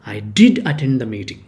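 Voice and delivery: did leaned on in I did attend the meeting; stress on did. Shown as a demonstration. Teacher repeating the emphatic answer, did stressed. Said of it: "stressing on that".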